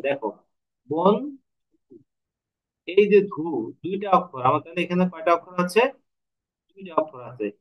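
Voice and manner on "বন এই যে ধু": "বন" and "ধু" as two separate syllables, long gap between. Shown as a demonstration. Teacher counting the syllables in বন্ধু, syllable by syllable. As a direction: split বন্ধু into "বন", then "ধু". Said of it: "বন্ধু শব্দটাতে কয়টি অক্ষর আছে".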